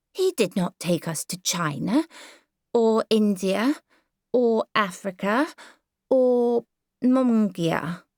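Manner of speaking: put-on a small boy getting stubborn; sulky child pressing the point; whining little boy. Howard lists countries.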